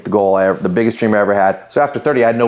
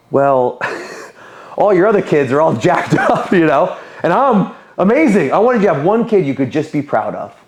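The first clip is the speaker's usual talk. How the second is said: retold cocky boast, pitched up; arrogant; 6 semitones higher than usual. Son boasting to his dad about outdoing his siblings, arrogant. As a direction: play back your own arrogance, half laughing. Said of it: "the most arrogant thing I've probably ever said".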